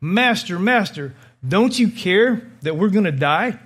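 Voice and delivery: a touch of blame in a panicked plea to the teacher; accusatory cry. Retold or imitated. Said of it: "almost accusatory".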